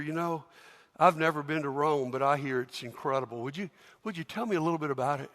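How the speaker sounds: quiet, easy curiosity; soft friendly asking. Acted. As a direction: ask him gently.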